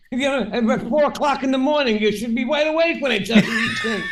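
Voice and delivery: amused scolding between laughs; laughing while talking. Real, not acted. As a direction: tease him through a laugh. Teasing his friend about the joke.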